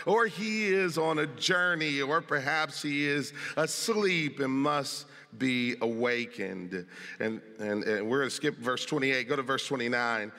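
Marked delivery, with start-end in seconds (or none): 0.1-6.8 mocking. Elijah taunting Baal's prophets, slow and mock drowsy. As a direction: drag it out as if nodding off. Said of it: "Elijah mocked them".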